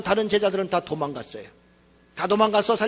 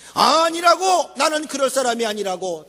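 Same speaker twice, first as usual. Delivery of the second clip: proud slow denial; 2 semitones higher than usual. Retold or imitated. Preacher replaying Peter's boast, slow and proudly emphatic. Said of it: "당당하게 자기를 믿은 거요".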